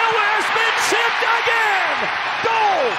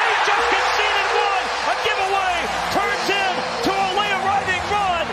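goal yell; 6 semitones higher than usual. Real, not acted. Goal call in live commentary.

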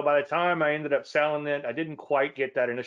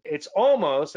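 "almost" pushed up and louder, falling; stress on almost; 4 semitones higher, 5 dB louder, slower than usual. Shown as a demonstration. Teacher stressing "almost" to trading students, emphatic. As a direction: lean hard on "almost". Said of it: "emphasize the word almost".

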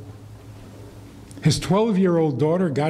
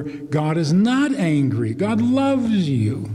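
mock soothing; 2 semitones higher, slower than usual. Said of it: "told her a hundred times over".

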